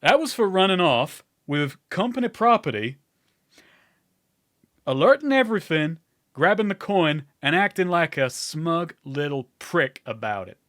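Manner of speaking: heated reprimand, easing at the end; scolding. Acted. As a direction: list the offences like an angry boss. Lydian scolds Dwight after slapping him.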